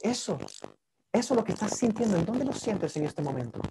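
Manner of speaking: gentle therapist asking. Shown as a demonstration. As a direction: let the curiosity land.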